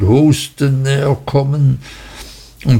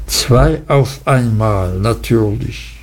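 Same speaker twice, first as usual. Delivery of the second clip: thoughtful. Acted. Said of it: "Und er nickte gedankenvoll".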